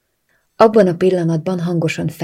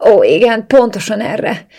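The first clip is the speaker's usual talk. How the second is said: whimpering; 5 semitones higher, 8 dB louder than usual. A narrator's reading. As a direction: whimper it high and loud, stretching the words. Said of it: "nyűszítettem".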